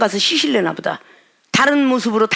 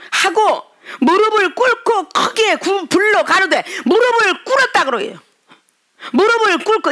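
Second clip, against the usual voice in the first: high, slow, impassioned sermon voice; fervent preaching; 8 semitones higher than usual. Real, not acted. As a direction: drive it home like a revival preacher. Preaching at full force. (높고 느리게 열정적으로 설교하듯)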